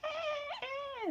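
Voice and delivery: very high squeaky bird "eh, eh"; imitating bird squawk. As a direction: mimic the cockatiel's sharp alarm chirp. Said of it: "she'll all of a sudden go".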